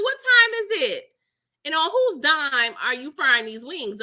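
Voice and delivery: a hint of a sassy scolding; mildly indignant, half-joking; mock indignant. Voicing herself scolding Diamond.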